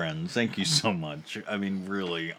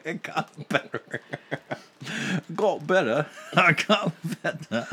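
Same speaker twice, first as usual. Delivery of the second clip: put-on Russian accent; 10 semitones higher, 8 dB louder than usual. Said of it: "Quit speaking in Russian".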